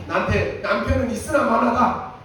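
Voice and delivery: mock grumbling to God; whining prayer. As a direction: imitate a self-pitying prayer. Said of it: "그렇게 기도했다니까요".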